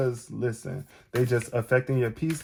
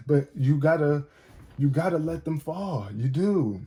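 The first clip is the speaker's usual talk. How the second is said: emotional; 3 semitones higher than usual. Real, not acted. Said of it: "Not me getting all emotional".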